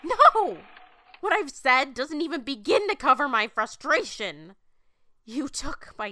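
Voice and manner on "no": sharp shouted no, high and loud; angry shout. Acted. Woman furiously shouting at God in defiance. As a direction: fire it back in fury.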